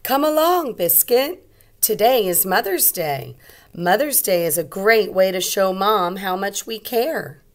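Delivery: bright call to the puppy; little girl voice. Acted. Little girl's lines in story.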